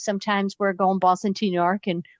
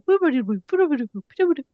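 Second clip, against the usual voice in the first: flashback jingle; 4 semitones higher, faster than usual. Retold or imitated. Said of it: "they do a little flashback and they go".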